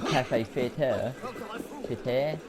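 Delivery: slow, tentative French-style Cafe Theatre; French accent. Shown as a demonstration. Gamer naming an in-game venue, attempted French accent. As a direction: try the name with a French accent. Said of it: "like, the accent".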